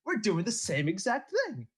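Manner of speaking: put-on high hammy Italian accent. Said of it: "such a strong Italian accent".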